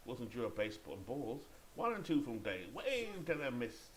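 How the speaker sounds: baseball announcer introducing the batter; measured call that jumps up on the action; play-by-play. Pretend. Calls the game play-by-play.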